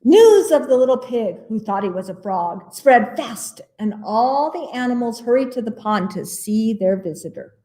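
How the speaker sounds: put-on picture-book reading for children; animated storytime narrator; story narration. A narrator's reading. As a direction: read it to little listeners, lifting the surprises.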